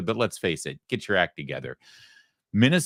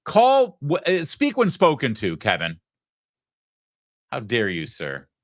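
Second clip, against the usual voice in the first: shrill mock scolding, much higher and louder; mock outrage; 5 semitones higher, 4 dB louder than usual. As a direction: pretend to snap at the producer, hammed up.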